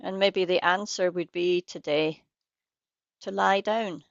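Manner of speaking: unhurried guidance with long pauses between phrases; guided meditation. Real, not acted. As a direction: lead listeners gently into practice, leaving space after each phrase.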